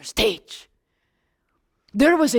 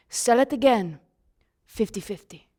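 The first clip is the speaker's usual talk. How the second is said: quieter, dropping priest's aside; sly priest aside; 4 semitones lower, 5 dB quieter than usual. Acted. Priest to the lamb vendor, quiet conspiring aside. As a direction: drop to a low, quiet deal. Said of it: "and say".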